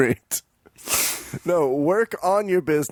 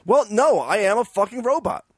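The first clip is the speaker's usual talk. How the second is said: robot voice; 7 semitones higher than usual. Pretend. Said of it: "you might not be a robot".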